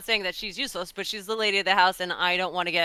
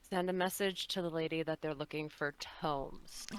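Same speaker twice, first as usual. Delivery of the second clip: soft, secretive whisper; 4 semitones lower, 13 dB quieter than usual. Acted. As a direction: barely breathe it to him. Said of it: "very quietly whisper to him".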